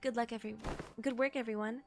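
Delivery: reading game dialogue. Acted. Streamer reads characters' lines to chat, understated delivery. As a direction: read the lines out quietly and evenly.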